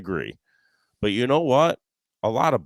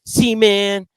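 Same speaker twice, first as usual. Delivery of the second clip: much higher, louder put-on whine; mock angry friend; 9 semitones higher, 9 dB louder than usual. Golfer quoting his buddy after a bad shot, mock angry high whine. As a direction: sulk it out like a grumpy golfer. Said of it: "He walks up all mad".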